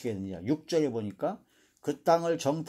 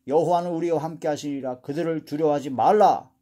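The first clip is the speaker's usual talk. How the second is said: strong, insistent voice of Joshua and Caleb, louder on key phrases; forceful exhortation; 4 dB louder than usual. Acted. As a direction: urge the crowd firmly, punching the commands. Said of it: "여호수아 갈렙이 강하게 얘기하나". (강하게 호소하듯)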